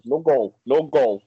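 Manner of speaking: lightly put-on Swiss referee accent; hint of a foreign referee, Swiss; imitated Swiss referee accent. Imagining the Swiss referee's ruling, light mock accent. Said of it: "What else could do in that accent for?".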